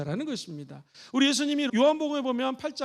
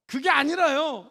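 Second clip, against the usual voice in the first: contradicting; 5 dB louder, slower than usual. Shown as a demonstration. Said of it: "이러면 이게 소통이 안 된다".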